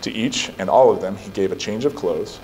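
measured, solemn Bible reading; scripture reading. Acted. Pastor reading Genesis aloud to the church in a solemn voice. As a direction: read the passage with weight.

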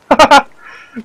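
high, loud burst of laughter. Real, not acted. Gamer laughing at a creature with logs, loud laugh. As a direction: crack up loudly.

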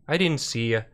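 mock-Canadian apology; lightly imitated Canadian accent. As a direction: say sorry like a Canadian driver. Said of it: "like, a thick Canadian accent".

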